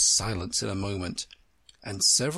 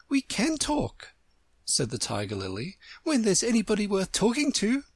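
lofty and superior; haughty flower; 9 semitones higher than usual. Acted. Tiger Lily voiced.

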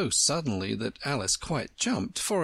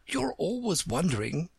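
Tiger Lily; 7 semitones higher than usual. Acted. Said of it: "said the Tiger Lily".

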